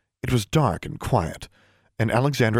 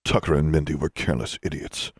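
contemptuous; 6 semitones lower than usual. A narrator's reading. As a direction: dismiss them with contempt. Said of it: "he said contemptuously".

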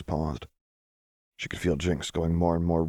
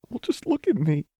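higher, beaming through tears; 12 semitones higher, 3 dB louder than usual. A narrator's reading. Lux showing Jinx her joy, beaming. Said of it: "She was beaming".

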